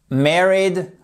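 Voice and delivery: "Married" with an open E, like "merry"; "Married" with American MEH in the first syllable; American pronunciation. Shown as a demonstration. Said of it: "ça sera pas married, mais ça sera married".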